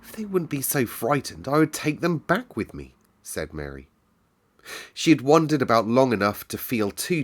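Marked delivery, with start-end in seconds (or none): 0.0-2.9 lightly voiced young girl, higher; a hint of a wistful girl; Mary's voice. A narrator's reading. Mary speaks in story.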